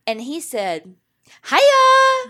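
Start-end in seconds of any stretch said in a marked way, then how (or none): 1.5-2.3 squealed high hiya; chirpy loud greeting; high excited greeting. Retold or imitated. Patrick's email greeting voiced.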